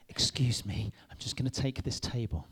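understated, mild-mannered excuse me; mock politeness. Preacher imitating Jesus gently moving a table, mock polite. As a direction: act a meek, polite request. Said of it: "very much doubt it was in the manner of".

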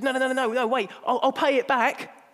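hammed-up plea for time; mock pleading. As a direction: beg like a desperate debtor. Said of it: "and we said".

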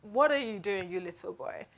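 imitated Jamaican scolding, dropping away at the end; Jamaican accent. Imagining Samuel dismissing young David, mock Jamaican accent. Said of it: "like, a Jamaican accent".

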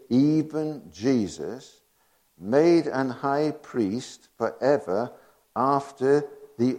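slow, deliberate solemn reading; scripture reading. Acted. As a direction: weigh each phrase of the verse. Reading King James scripture.

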